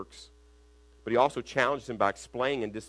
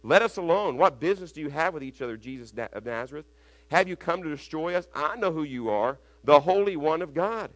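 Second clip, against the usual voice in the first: loud, raised cry of the possessed; loud demon cry; 5 semitones higher, 7 dB louder than usual. A narrator's reading. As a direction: shout it like a tormented spirit. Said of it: "he cried out with a loud voice".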